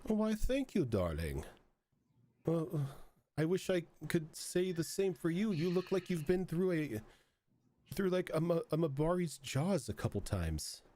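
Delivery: put-on half-hearted French accent for a snooty masked hostess; attempted French accent. The bathhouse hostess greets the muddy guest, in a mock French accent. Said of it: "I can't do a French accent".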